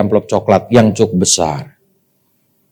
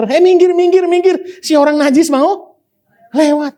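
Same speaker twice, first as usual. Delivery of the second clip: high, sneering shout of minggir; scornful crowd voice. Retold or imitated. Preacher voicing the crowd pushing the unclean woman aside, high and sneering. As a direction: shoo her away with disgust.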